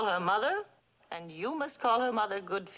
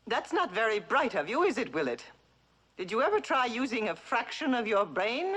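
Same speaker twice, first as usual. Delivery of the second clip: mock scolding mother; 2 semitones higher than usual. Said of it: "Say something to my son".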